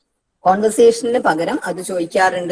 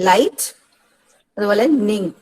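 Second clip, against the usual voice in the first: "ലൈറ്റ്" and "നിങ്" set apart by a pause; syllable by syllable. Shown as a demonstration. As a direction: break the word into "ലൈറ്റ്", then "നിങ്". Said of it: "അങ്ങനെ രണ്ട് vowel sounds ആണ് അതിൽ". ("ലൈറ്റ്", "നിങ്" എന്ന് syllable തിരിച്ച് പറയുക)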